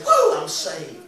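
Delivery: high joyful woo; imitated joyful shout. Singer imitates a worshipper's happy shout. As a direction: whoop for joy. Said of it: "I can hear you when you say".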